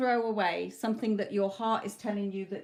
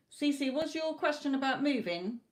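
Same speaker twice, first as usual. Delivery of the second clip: raised, higher-pitched call; 6 semitones higher than usual. Real, not acted. Reader calling to C C in online chat, needlessly raised voice. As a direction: project the question as if they are far away. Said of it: "I don't know why I'm shouting".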